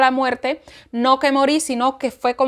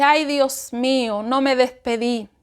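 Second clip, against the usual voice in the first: sorrowful lament; 4 semitones lower than usual. Retold or imitated. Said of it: "yo dije".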